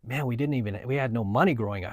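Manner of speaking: soft, hushed quote of a moved father; retold near tears. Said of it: "my dad was almost in tears".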